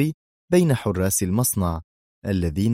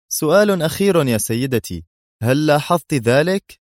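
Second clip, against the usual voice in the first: higher, louder teasing mockery; mocking tone; 7 semitones higher, 5 dB louder than usual. A narrator's reading. Guard mocking Sonia before revealing himself, mocking tone. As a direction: tease her with the last question. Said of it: "قال بلهجة تهكمية".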